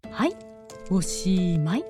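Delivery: ordinary delivery, nothing marked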